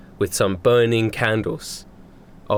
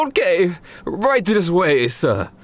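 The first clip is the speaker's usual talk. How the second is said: slow, higher butler voice; waiter voice; 8 semitones higher, slower than usual. Acted. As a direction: usher the guest in politely. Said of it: "And they go".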